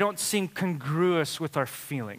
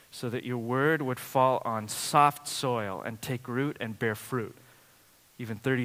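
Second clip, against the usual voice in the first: low, subdued pastoral prayer; 4 semitones lower, 4 dB quieter than usual. Real, not acted. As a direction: pray softly, letting the phrase ends drop. Leads congregation in prayer.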